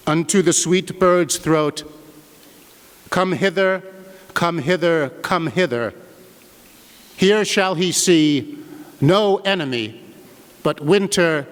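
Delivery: measured verse reading, pausing after each line; poem recitation. Acted. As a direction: recite it as Shakespearean verse, phrase by phrase. Recites Shakespeare song from the play.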